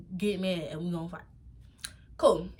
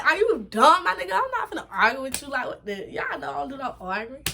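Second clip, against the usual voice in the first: put-on New York accent; 4 semitones higher than usual. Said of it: "My New York accent came out".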